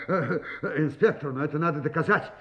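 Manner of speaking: laughing it off, fast; forced laughter of a cornered man; nervous laugh. Acted. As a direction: rattle it off through a nervous laugh.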